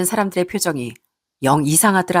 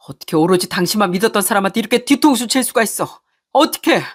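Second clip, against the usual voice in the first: furious husband; 2 semitones higher than usual. Acted. Husband keeps berating wife.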